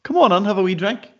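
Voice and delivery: high, wheedling coax. Acted. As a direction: coax her sweetly into a drink. Coaxing Lindsay to drink.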